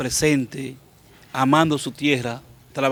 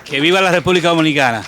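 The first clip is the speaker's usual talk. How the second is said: patriotic cheer; 2 semitones higher, 5 dB louder, faster than usual. Real, not acted. Vítores al cerrar el programa.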